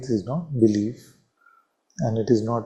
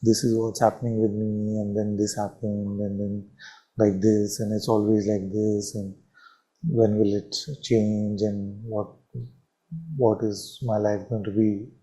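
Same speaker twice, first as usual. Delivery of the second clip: self-pitying complaint; 4 semitones lower than usual. Retold or imitated. Teacher imitating a self-absorbed believer, mildly whiny. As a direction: sigh out the woes of a self-absorbed seeker. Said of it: "it becomes very difficult to then say".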